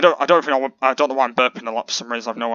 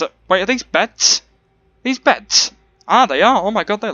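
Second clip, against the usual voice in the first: surprised; 7 semitones higher, 4 dB louder than usual. Real, not acted. Spotting the beds in surprise.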